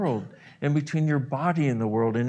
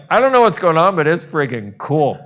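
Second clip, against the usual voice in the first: louder, fast and higher, bubbling with excitement; thrilled; 3 semitones higher, 10 dB louder than usual. Pretend. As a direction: gush like a delighted kid. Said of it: "you and your body are like".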